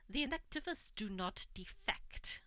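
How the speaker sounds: put-on whispered in a Welsh accent; hushed Welsh-accented NPC voice. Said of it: "mostly Welsh accent is tiring".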